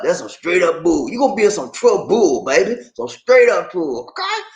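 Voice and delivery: light imitation of a comedian drawling "trouble"; mildly doing Bernie Mac's stern warning; Bernie Mac impression. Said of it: "Bernie Mac. He said".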